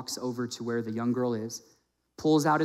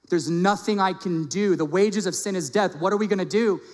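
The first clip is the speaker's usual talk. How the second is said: acted desperation; 5 semitones higher, 3 dB louder than usual. Acting out sinners' helpless plea.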